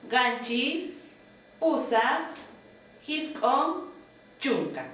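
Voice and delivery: each Quechua number said slowly, rising, the last falling; counting drill. Shown as a demonstration. Teacher reciting the numbers for students, slow rising count. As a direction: model the count for the class to repeat. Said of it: "Volvemos a repetir".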